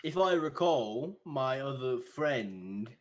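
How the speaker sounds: put-on an officious young guard scolding; indignant guard. Guard confronting the party, high and indignant.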